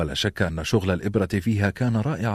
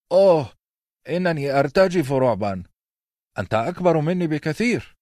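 sarcastic mock fear; 8 semitones higher than usual. A narrator's reading. The prince sneers at Robb in high mock fright. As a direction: pretend to tremble, dripping sarcasm. Prince mocks Robb's challenge.

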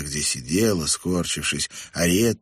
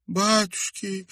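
high, drawn-out whimper; slow, tearful high moan; sobbing; 14 semitones higher, slower than usual. A narrator's reading. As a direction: whimper in dismay. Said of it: "всхлипнула Хомели".

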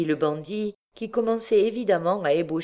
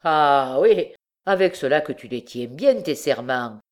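mocking, insolent bandit voice; a sneering husband mocking his wife's promises; impudent sneer; 6 dB louder than usual. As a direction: throw her oaths back at her with contempt. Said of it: "dit impudemment le bandit".

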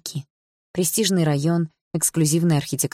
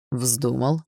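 calm echo; 3 semitones lower than usual. Acted. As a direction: throw it back calmly. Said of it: "спокойно ответил Барс".

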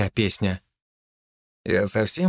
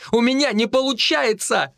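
high anguished scream; 11 semitones higher than usual. A narrator's reading. Vika in Artyom's arms, screaming. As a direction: wail it in despair. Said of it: "закричала она".

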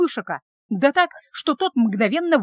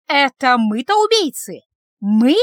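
loud, indignant outburst; getting more worked up; 6 dB louder, slower than usual. Acted. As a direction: flare up in outrage. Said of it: "ещё больше заводилась Бажена".

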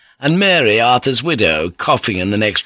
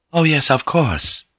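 soothing; 5 semitones higher than usual. A narrator's reading. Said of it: "Mariko said soothingly".

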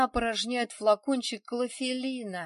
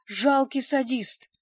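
furious shout; 4 semitones higher, 7 dB louder, slower than usual. A narrator's reading. Olga screams at Vladik.

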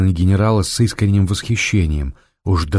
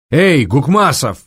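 calling out; 7 semitones higher, 3 dB louder, slower than usual. A narrator's reading. Calling the orderly.

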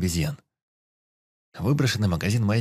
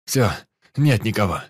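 loud grim report; shouting; 2 semitones higher, 6 dB louder than usual. Acted. Shouting that nobody is left.

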